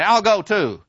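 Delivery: high, grudging agreement; reluctant boy giving in. Retold or imitated. Kemerick giving in to the boys, high and grudging. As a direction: give in like a kid.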